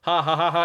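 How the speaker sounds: a stiff, forced little laugh, mildly acted; mock an uneasy ha-ha-ha; awkward laugh. Commander forcing a laugh with her subordinates, awkward laugh. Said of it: "they have this awkward laugh".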